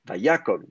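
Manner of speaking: Vayakom with YA stressed and a short final kom; va-YA-kom, falling onto a short last vowel; stress back, short ending. Shown as a demonstration. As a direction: lean on YA in Vayakom, cut the o short. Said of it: "je vais raccourcir encore plus".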